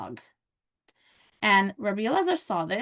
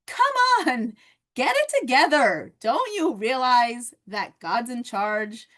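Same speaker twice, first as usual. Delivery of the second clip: self pep talk; 4 dB louder, slower than usual. Shown as a demonstration. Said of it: "what Moses did to them is what we need to do to ourselves".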